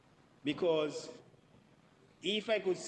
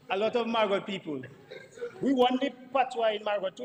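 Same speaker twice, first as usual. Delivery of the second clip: laughing animatedly; 4 semitones higher, 4 dB louder than usual. Real, not acted. Laughing while making the point.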